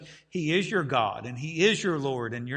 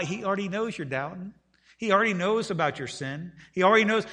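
climbing insistence on already; rising emphasis; 4 semitones higher than usual. Real, not acted. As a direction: build it, stressing already each time. Preacher building to a point.

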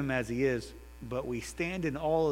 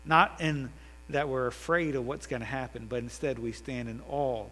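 earnest prayer voice, rising then settling; leading prayer. Acted. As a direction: pray sincerely for the congregation. Closing prayer led by the preacher.

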